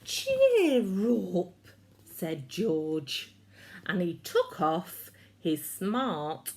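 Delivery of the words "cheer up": hearty cheer. A narrator's reading. George comforts the dog.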